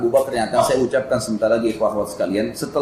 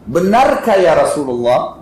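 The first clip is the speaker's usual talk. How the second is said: deliberately raised voice; 4 dB louder, slower than usual. Retold or imitated. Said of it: "sengaja kerasin suara".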